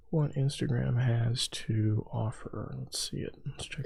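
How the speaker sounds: breathy whisper to himself. Real, not acted. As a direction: whisper it under your breath. Muttering to himself while searching.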